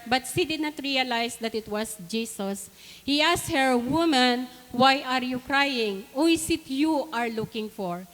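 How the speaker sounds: scripture reading. Acted. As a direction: read the Bible passage aloud, phrase by phrase. Reads scripture aloud to congregation. (mabagal na pagbasa ng Bibliya)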